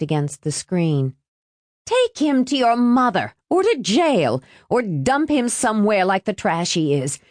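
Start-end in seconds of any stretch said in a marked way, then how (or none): 1.9-7.2 high, scolding aunt's voice; high-pitched scornful tirade; angry calling down. A narrator's reading. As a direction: call it down indignantly, pitched high. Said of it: "she called down".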